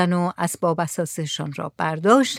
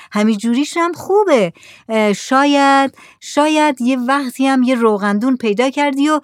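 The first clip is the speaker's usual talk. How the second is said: lightly voiced Saleh, higher, explaining; patient villager; 5 semitones higher than usual. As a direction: explain the broken lamp patiently.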